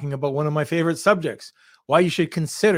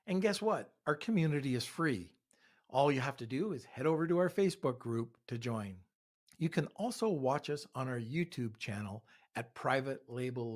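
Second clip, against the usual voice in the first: soft, even sponsor read; 11 dB quieter than usual. Acted. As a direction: read it like a recorded ad.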